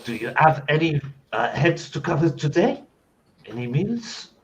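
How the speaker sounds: French cook staking a claim on the kitchen; French chef. Acted. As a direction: play a haughty French chef.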